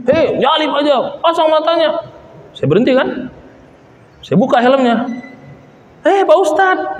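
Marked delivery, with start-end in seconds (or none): 0.1-2.0 imitating an annoyed motorist; angry driver. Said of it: "Buka sama mobil". 6.0-7.0 high, drawn-out startled greeting; imitating the driver's sudden surprise; surprised recognition. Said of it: "nah, gitu kan".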